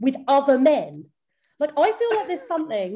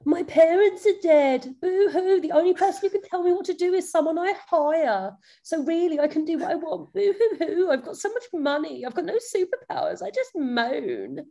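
whiny Batman; 5 semitones higher than usual. Retold or imitated. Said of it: "all he does is whine".

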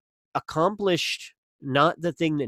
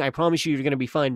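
put-on honest, gentle comfort to a hurt child; calm him kindly with a promise; reassuring; 2 semitones higher, faster than usual. Shown as a demonstration. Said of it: "honest, reassuring way".

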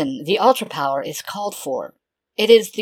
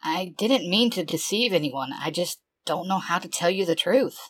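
softer, hushed confession; 4 semitones higher, 5 dB quieter than usual. A narrator's reading. Shinon confessing to Jason, soft and hushed. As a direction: confess it quietly.

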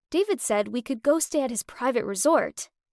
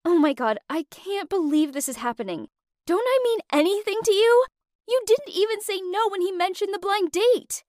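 higher, louder, furious disbelief; fuming; 8 semitones higher, 4 dB louder than usual. Retold or imitated. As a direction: let the hurt burst out, voice climbing. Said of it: "I was fuming by this point".

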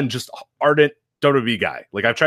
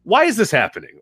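high, louder puzzled plea; high, pleading why; exasperated question; 5 semitones higher, 4 dB louder than usual. Retold or imitated. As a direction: demand an answer, pitched up. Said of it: "they look to you to say".

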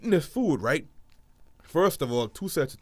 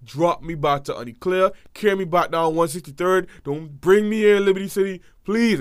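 begging; 3 semitones higher, 5 dB louder than usual. Retold or imitated. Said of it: "begging my mom".

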